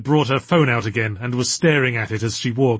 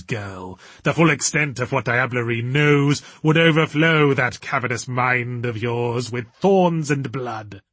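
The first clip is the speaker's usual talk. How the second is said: pompous villain voice. Acted. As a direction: declaim it like a woozy dark lord. Diablerie's grand character voice.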